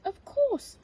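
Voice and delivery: high cheerful of course; bright agreement. Acted. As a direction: agree gladly. Pearl agreeing.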